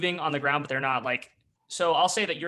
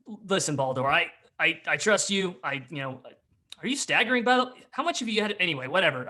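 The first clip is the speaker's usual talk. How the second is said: exasperated; 3 semitones higher than usual. Acted. Gruff figure questions staggering Baldur.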